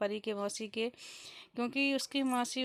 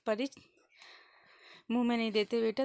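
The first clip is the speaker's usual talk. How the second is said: put-on louder, mild scolding of a baby; firm but loving telling-off; gently stern mother warning her baby; a bit sharper; 3 dB louder, faster than usual. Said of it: "थोड़ा सा तेज़ बोली".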